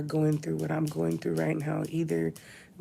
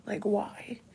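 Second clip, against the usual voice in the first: pleading with Misha; 3 semitones higher, 4 dB quieter than usual. Retold or imitated. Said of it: "I just kept telling her".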